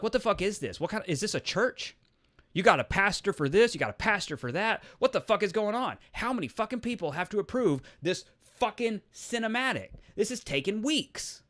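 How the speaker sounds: high-pitched, incredulous ranting questions; retold exasperation. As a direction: re-enact losing patience with endless approvals. Acts exasperation at approval chain.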